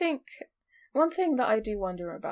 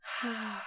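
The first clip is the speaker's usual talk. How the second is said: disappointed sigh; 3 semitones higher, 9 dB quieter than usual. Real, not acted. Sighs in disappointment.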